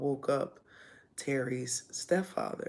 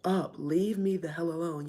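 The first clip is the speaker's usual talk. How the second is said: shooting back; 3 semitones higher, 3 dB louder than usual. Retold or imitated. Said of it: "I'm, like, shooting back".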